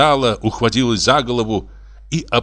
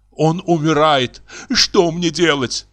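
slow, high, plaintive voice; drawn-out woeful woman's voice; despairing wife; 6 semitones higher than usual. Acted. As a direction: moan it helplessly.

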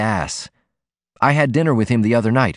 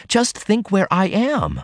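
slow, higher, hushed wonder; awed plea; 10 semitones higher than usual. A narrator's reading. Ruth marvels at her daring to Martin: slow, higher wonder.

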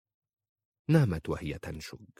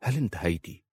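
calm. A narrator's reading. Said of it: "قال في هدوء".

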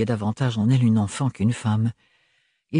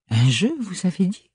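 stern; 7 semitones higher than usual. A narrator's reading. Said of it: "d'un ton sévère".

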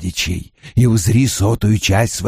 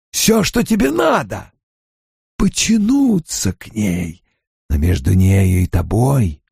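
soft and coaxing; 3 semitones higher, slower than usual. Acted. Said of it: "Голос Баалзамана стал тихим, вкрадчивым".

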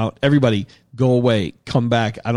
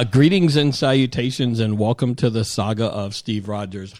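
podcast intro. Acted.

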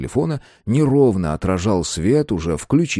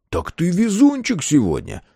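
gleeful, high-pitched exclamation; pleased and teasing, pitch up; delighted; 10 semitones higher than usual. A narrator's reading. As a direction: crow happily at the other man. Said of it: "обрадовался Андрей".

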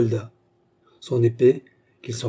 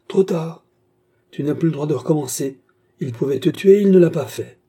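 higher and louder, rising to a shout; firm command; 5 semitones higher, 5 dB louder than usual. A narrator's reading. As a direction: stop him cold, no arguing. Kergaz stops Bastien firmly.

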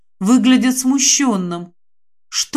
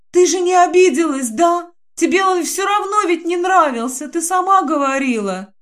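заискивающе; 8 semitones higher than usual. Acted. Динка заискивающе спрашивает.

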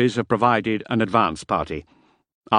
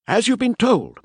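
higher, precise clerk voice; fussy paymaster; 5 dB louder than usual. Acted. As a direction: speak like a tidy, exacting paymaster. Parvels speaks to recruits.

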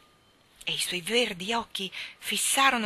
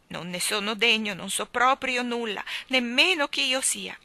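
weeping king; 5 semitones higher, 6 dB louder than usual. Acted. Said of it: "disse piangendo".

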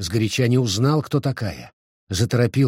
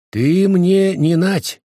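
higher, louder, slow refusal; резкий отказ мужа; 8 semitones higher, 6 dB louder, slower than usual. Acted. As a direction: push her away with each word. Муж отказывает вернувшейся жене. (громкий, медленный отказ)

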